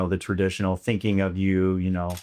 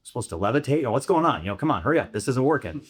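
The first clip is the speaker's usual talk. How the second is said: mock-fretful, pitched up, hurrying himself along; impatient inner voice; 5 semitones higher, faster than usual. Meditator with ADHD mocking his own impatience, fretful and pitched up. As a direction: play the restless beginner who can't sit still. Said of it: "'Cause you're like".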